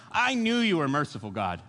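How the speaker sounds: mock-aggrieved Jonah; retried mock complaint. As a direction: grumble it, sinking on the last word. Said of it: "let me try that again".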